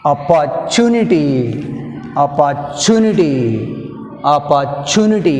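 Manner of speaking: Opportunity stretched out, stress on tu; slow model word. Shown as a demonstration. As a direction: say Opportunity slowly for students. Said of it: "Third syllable from the end".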